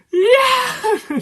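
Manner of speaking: very high, loud screamed cheer; retold ecstatic yell. Viewer reliving the number one, retold ecstatic yell. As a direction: act out losing it with a piercing whoop. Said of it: "And I was like".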